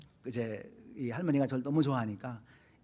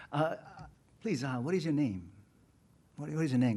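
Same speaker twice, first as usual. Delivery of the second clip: very slow, gentle, deliberately calm introduction; calm and friendly; much slower than usual. Retold or imitated. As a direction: keep your temper, greet the angry neighbor slowly and kindly. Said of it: "잠잠히 제 영혼을 다스려갖고".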